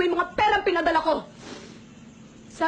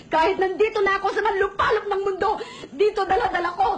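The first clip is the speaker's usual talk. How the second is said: tearful. Acted. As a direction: voice wavering with tears. Mother tearfully explaining sacrifice. (naluluhang pagsasalita)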